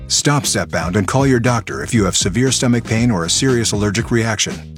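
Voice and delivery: ordinary delivery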